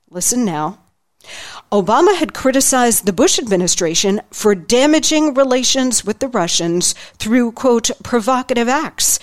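slightly lifted book-reading voice, lightly dramatized; reading from his book. Acted. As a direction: read the passage to listeners with mild flair. Reads aloud from his book.

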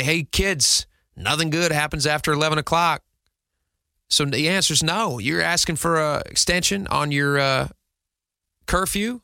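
lightly put-on Southern dad accent; father refusing his kids, faintly Southern-accented. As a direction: lay down the curfew in a mild mock Southern accent. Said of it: "I apologize for the Western accent, for the Southern accent".

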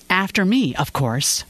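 a mild snort of smug scorn; secretary scoffing to the new associate, mildly smug; snorting reply. Acted. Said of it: "Rosie had snorted".

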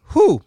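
blowing out a winded whew; exhale whew. Real, not acted. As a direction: puff out air to recover. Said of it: "Let me catch my breath here".

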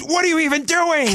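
exasperated fan yelling at the play; overreacting fan. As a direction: scoff like an impatient armchair fan.

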